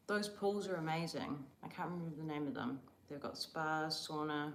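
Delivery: talking with mouth full; words round a mouthful of snack. Real, not acted. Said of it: "I shouldn't talk with my mouth full".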